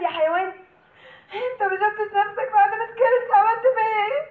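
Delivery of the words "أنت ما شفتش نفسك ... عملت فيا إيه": tearful accusation. Acted. Woman accusing the man, crying. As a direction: sob out the accusation.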